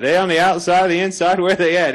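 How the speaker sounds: Southern US accent from South Carolina.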